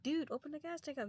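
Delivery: playing Chris calling through the window; mock Chris.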